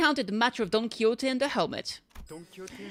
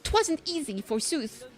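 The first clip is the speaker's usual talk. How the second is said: hammed-up Spanish accent, bold and grand; a knight declaring his quest in a Spanish accent; lightly Spanish-accented brave knight; 4 semitones higher than usual. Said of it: "she's getting that Spanish accent".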